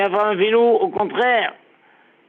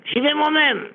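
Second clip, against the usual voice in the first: raised, scolding retold rebuke; lightly voiced angry Abraham; mock angry Abraham; 5 semitones higher than usual. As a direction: scold the servant, pitched up. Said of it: "Abraham fait".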